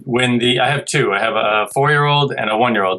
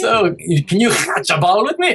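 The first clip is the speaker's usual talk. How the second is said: imitating his kid; 8 semitones higher than usual. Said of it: "Now he's just like".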